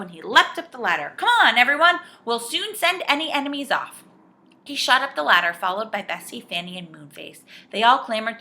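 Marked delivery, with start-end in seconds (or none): 1.2-4.0 high, loud, urgent voice; rallying call. A narrator's reading. Joe leaps up the ladder, calling to everyone. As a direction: rouse everyone to action. Joe rallies the others to rescue.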